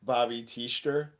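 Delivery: "Teester" slowly as TEESH-ter; "Teester" drawn out, rising like a question; Worcester-style shortening. Shown as a demonstration. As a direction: squeeze the name to "Teester", two syllables. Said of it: "So would it be like".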